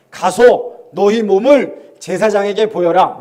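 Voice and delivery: slow, calm, authoritative; Jesus's calm command. Retold or imitated. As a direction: say it slowly and gently with authority. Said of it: "예수님이".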